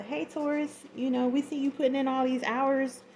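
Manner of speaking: mock boss voice. Voicing a boss offering raise.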